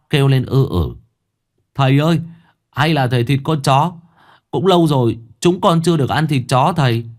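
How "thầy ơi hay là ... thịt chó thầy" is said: son pleading. Acted. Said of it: "son asking father".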